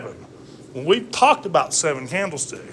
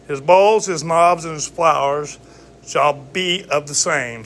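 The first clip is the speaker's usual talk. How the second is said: slow, raised King James reading; scripture reading; 2 semitones higher than usual. Acted. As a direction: read the verse like scripture. Reads scripture aloud.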